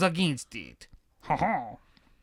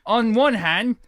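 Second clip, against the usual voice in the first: put-on Cockney accent; 2 semitones higher than usual. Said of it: "Cockney accent".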